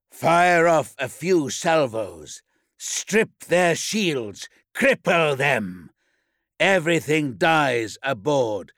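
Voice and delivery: rasping tyrant shouting commands; commanding warlord. Acted. Warlord barking orders to shipmaster.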